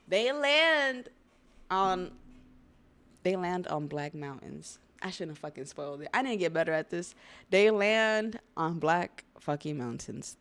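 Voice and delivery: excited shout. Real, not acted. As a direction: shout it out, slowed for emphasis. Hyped reveal continues.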